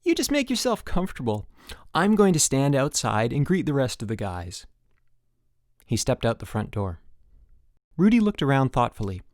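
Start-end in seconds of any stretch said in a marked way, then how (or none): 0.0-4.6 bright bouncy counselor voice; peppy counselor. Acted. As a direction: pump up the new camper.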